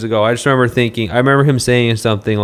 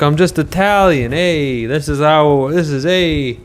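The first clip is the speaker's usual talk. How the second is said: mocking the governor; 5 semitones higher than usual. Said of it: "He was like".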